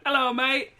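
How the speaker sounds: loud, high, hammed-up Australian greeting; fake Australian accent. Drunk sailor bluffing Shore Patrol, fake Australian accent. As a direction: put on a stupid Australian accent. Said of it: "keep acting like I'm Australian".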